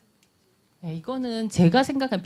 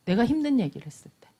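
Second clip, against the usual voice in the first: normal talking voice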